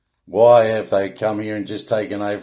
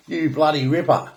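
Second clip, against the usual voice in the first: Aussie slang; 4 semitones higher than usual. Shown as a demonstration. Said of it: "Aussie slang".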